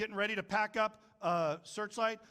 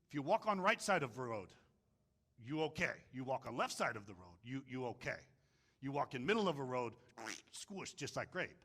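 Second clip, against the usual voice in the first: Mister Miyagi; 5 semitones lower than usual. Retold or imitated. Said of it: "Mister Miyagi asked Daniel-san".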